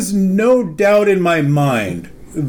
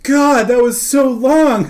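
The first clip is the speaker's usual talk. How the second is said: higher-pitched mock grumble; impatient complaint; 4 semitones higher than usual. Customer complaining about the wait, retold impatience. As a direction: imitate a fed-up waiting customer.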